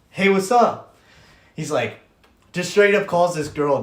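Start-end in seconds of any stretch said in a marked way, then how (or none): 0.1-0.9 high, loud hello in imitation; mock-cheery phone greeting. Bob calls the girl in front of her boyfriend, mock-cheery. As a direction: greet her brightly to set a trap.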